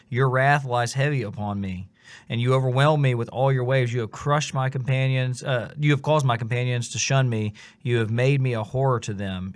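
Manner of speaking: scripture read out with rising intensity; reciting a psalm. Acted. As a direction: read the psalm like a cry of despair. Continues reading the lament psalm.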